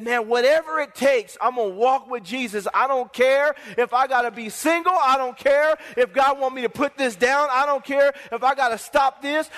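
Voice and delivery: insistent preacher's vow, building; impassioned, driving repetition; fervent declaration. Acted. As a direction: declare it like a wholly committed believer. Acts out fully surrendered believer's vow.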